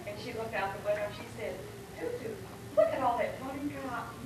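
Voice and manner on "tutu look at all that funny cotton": put-on high little girl's voice, pitched well up; high excited little girl, half laughing; child's voice. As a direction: quote a wide-eyed small child, high and bright. Little daughter quoted in story.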